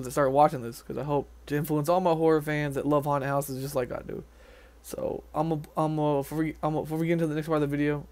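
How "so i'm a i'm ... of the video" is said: stumbling, stuttered restart; tripping over the words, stuttering. Real, not acted. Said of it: "sorry about the stuttering".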